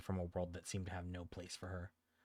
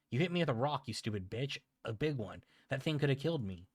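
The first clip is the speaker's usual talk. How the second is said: outraged yelling; 6 semitones higher, 4 dB louder than usual. Acted. Bully yelling at old woman.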